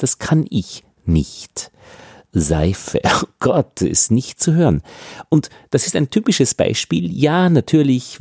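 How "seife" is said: "Seife" with a laboured voiced S at the start; attempted voiced S. Shown as a demonstration. Teacher tries an example she can't do, buzzed S in "Seife". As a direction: try to buzz the S of "Seife", self-consciously. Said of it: "das ist irgendwie aufgesetzt".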